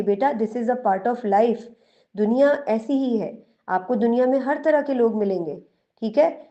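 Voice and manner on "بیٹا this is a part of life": gentle reassurance. Shown as a demonstration. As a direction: calmly comfort your little one. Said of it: "آپ اس کو بتائیں گی کہ". (بچے کو نرمی سے آہستہ سمجھانا)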